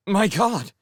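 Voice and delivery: high, loud startled cry; exclamation. Acted. Showen cries out, startled, over the radio. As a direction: blurt it out, startled. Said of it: "she exclaimed".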